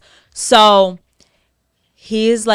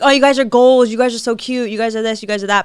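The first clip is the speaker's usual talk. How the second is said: over-gushing imitation; 3 semitones higher than usual. Mimicking the girl's repeated live comments, over-gushing. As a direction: rattle off overdone compliments. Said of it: "a little bit too much".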